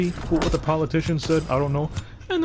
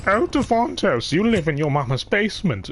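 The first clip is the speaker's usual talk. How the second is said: mocking strangers; 6 semitones higher than usual. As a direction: stretch the name out high and mocking. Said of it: "Like, they say".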